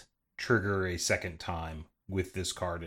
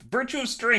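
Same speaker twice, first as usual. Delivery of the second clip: dramatic announcement; 14 semitones higher, 7 dB louder than usual. Acted.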